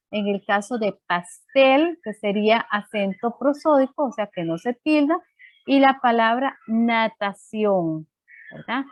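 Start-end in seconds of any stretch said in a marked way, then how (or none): 1.1-2.0 pastel slowed, rising on a long TEL; stress on last syllable. Shown as a demonstration. Teacher giving an example of an aguda word, last syllable stressed. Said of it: "el acento en la última sílaba". 6.7-8.1 natación drawn out slowly, weight on CIÓN; stress on CIÓN. Shown as a demonstration. Teacher showing students the accented syllable, stress on CIÓN. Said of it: "en la sílaba ción".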